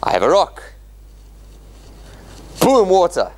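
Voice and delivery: a light hammed-up magician reveal; a mild ta-da showman Moses. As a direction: present it like a magic trick. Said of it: "is Moses come and say".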